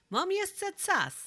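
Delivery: high, slow mocking reply; teasing drawl. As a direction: stretch it out to tease the old woman. Waldek teases the matchmaking old woman.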